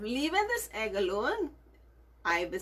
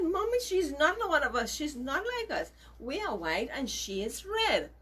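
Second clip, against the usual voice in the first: put-on childish chicks; 5 semitones higher than usual. Chicks answer their mother.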